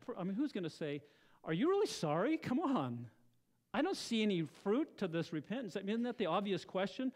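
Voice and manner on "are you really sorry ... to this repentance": mildly exasperated, doubting the apology; skeptical challenge. Acted. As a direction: question it with raised, skeptical emphasis. Voicing a doubter of repeated apologies.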